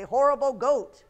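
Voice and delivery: loud mock outrage; playful, punched-out accusation; imitating the girl. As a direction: shout it like the cross little girl. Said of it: "Now she's gonna say".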